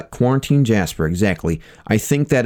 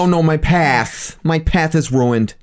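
mock dramatic lament; 6 semitones higher, slower than usual.

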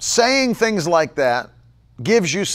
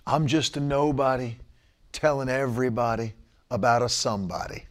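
low, soft mocking sing-song; mock-pious murmur; mock slogan; 7 semitones lower, 8 dB quieter than usual. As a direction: mimic a smug bio line, softly. Mocking a social bio slogan.

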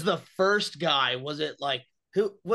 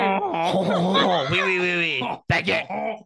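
put-on French accent; 3 semitones higher, 4 dB louder, much slower than usual. Friend doing a joke Frenchman, loud mock French accent. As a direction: play a cartoon Frenchman. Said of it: "French accent".

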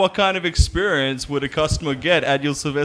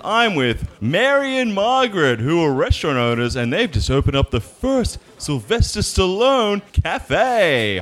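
bright news-reporter delivery. Acted. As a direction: present it like a local entertainment news spot. Reporter intro to camera.

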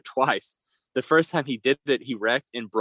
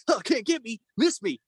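higher, teasing singsong; mock taunt while being pelted; 9 semitones higher than usual. Biker mocking friends who pelt him, higher voice. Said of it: "He's like".

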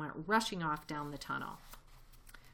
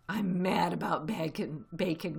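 eager, louder badger voice; excited cry; 5 dB louder than usual. Badger answering Mr Fox about bacon, excited and eager. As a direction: gush with greed for bacon. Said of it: "cried Badger, dancing with excitement".

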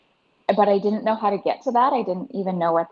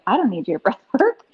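smug, slowed-down dismissive quote of her former self; looking down her nose at the breathwork class; high and mighty; 5 semitones higher than usual. Retold or imitated. Lightly mocking her old self, sniffing at breathwork. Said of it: "the high and mighty pedestal version of myself".

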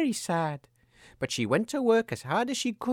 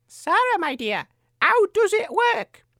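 higher, slower, sweet-sounding queen; evil queen; 12 semitones higher, 4 dB louder, slower than usual. Acted. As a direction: coax her falsely sweet. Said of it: "asked Sarah".

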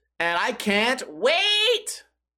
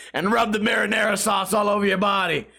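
laughing joke. Acted. Silly bath joke, laughing.

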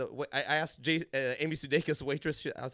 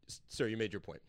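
timid waiter; 7 semitones lower, 9 dB quieter than usual. Retold or imitated. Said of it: "the guy was like".

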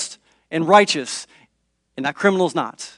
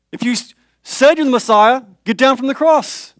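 mocking jeer; 5 semitones higher than usual. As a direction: dare him to come down. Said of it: "They were cheering him on".

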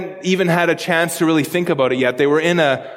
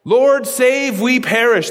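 raised, panicked plea for rescue; terrified cry; 5 semitones higher, slower than usual. Retold or imitated. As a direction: cry out like men about to drown. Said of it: "The disciples are terrified in this moment".

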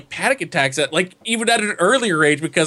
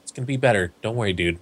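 creepy reassuring; 10 semitones lower, faster than usual. Pretend. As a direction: soothe like a strange old man. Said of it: "goes up to you".

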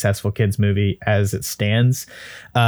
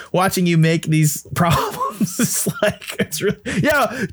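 much higher, slower incredulous whine; exasperated fan rant; 14 semitones higher than usual. Acted. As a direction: plead with the director like a betrayed fan. Fan mocks director's CG mistakes.

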